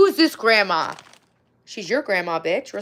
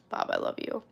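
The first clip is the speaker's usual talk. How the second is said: mock deep Bob voice; 10 dB quieter than usual. Voicing Bob's reply.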